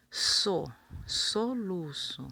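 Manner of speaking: So first, then soluço drawn out slowly; teacher spelling out soluço by syllable; syllable then word. Shown as a demonstration. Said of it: "E com su".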